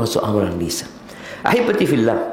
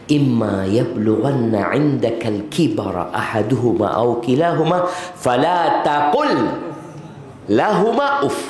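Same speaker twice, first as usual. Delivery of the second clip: Quran recitation. Acted.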